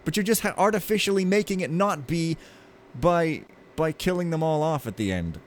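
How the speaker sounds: high, incredulous arguing; exasperated rant. Retold or imitated. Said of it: "And I'm like".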